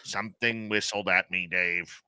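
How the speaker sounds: low, quiet deadpan answer; Merle. Retold or imitated. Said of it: "until I ask him".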